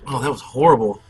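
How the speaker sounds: disgusted after a bug in the mouth; just swallowed a bug. Real, not acted. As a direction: spit out the words in disgust. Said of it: "a bug just flew in my mouth".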